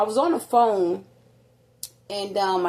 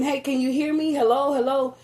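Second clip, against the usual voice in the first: higher-pitched mock calling into a phone; retold phone check; 5 semitones higher than usual. Mother checks if her son can hear, lightly acted calling. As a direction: replay checking whether the line still works.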